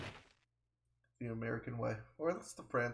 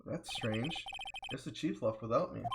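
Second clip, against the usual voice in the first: put-on southern accent. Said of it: "the most southern accent I can do".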